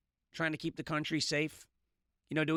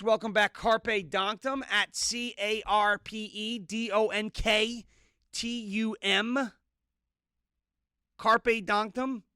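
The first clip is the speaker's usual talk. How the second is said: announcer welcome; 5 semitones higher, 4 dB louder, slower than usual. Real, not acted. Loud welcome, spelling the handle.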